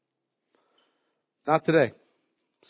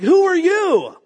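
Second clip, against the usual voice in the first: giant's roar; 13 semitones higher, 8 dB louder, slower than usual. Retold or imitated. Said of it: "He's just like".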